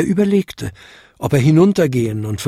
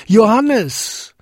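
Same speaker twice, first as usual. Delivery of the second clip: much higher, louder drawn-out call; calling as loud as he can; 10 semitones higher, 4 dB louder than usual. Acted. Father calls his son as loud as he can. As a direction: shout the name down into the distance. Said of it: "so laut er konnte".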